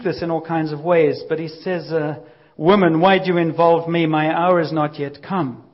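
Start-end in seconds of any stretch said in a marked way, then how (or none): 2.6-5.6 louder, curt rebuke, slowing on the end; a touch of displeased son brushing off his mother; not too pleased. Retold or imitated. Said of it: "he doesn't sound too pleased".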